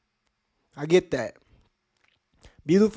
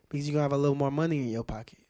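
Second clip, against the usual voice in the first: quick whispered aside; 5 dB quieter, much faster than usual. Real, not acted. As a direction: lean in and whisper it fast. Confiding aside after rhetorical why.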